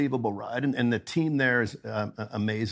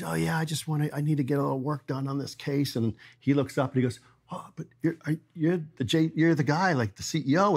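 lightly voiced nervous old man, a bit higher; a hint of a shy old customer, higher; nervous older guy; 4 semitones higher than usual. Old customer Gary recognizing the CEO, in a lightly higher nervous voice.

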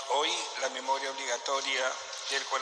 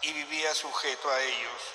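Gospel reading. Real, not acted. Priest reads the Gospel.

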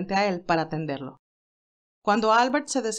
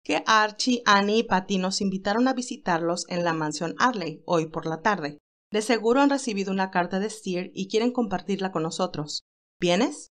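cheerful Candy. Acted. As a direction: lift the voice for lively young Candy. Candy voiced by reader.

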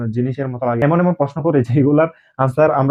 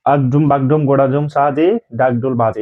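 rhyme recital. Shown as a demonstration. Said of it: "আমরা শিখাবো".

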